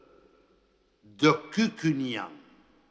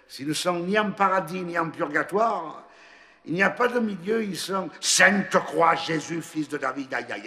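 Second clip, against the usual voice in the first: put-on the old priest in mild panic, higher and louder; distraught priest; 6 semitones higher, 6 dB louder than usual. A narrator's reading. The priest lamenting to the angel, higher and louder in alarm. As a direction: wail it out, a good man losing his flock. Priest despairs over his flock.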